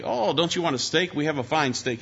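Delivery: lightly acted waiter pushing a dish; lightly voiced waiter. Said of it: "the waiter would say".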